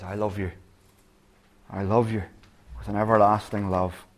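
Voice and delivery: soft, hushed and gentle; tender. Acted. God telling the listener he loves them, tenderly. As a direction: murmur it like a loving father. God's love quoted tenderly.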